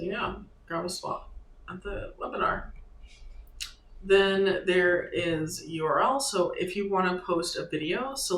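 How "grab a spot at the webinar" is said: whispering. Real, not acted. Muttered aside while typing.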